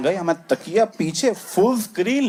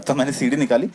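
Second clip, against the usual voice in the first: ordinary talk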